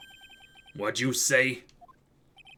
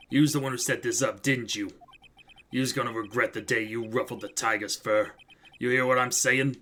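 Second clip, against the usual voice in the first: put-on Brooklyn accent. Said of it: "introduced a bad Brooklyn accent".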